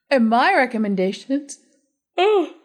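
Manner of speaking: interrupted by hiccups. Real, not acted. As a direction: talk through the hiccups. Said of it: "Oh, now I've got the hiccups".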